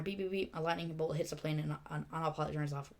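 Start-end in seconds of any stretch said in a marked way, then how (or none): 0.0-0.6 higher-pitched beeps imitating a horn; mimicked horn, in three beeps; pretend horn honk. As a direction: playfully beep like a horn. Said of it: "Pretending to honk the horn".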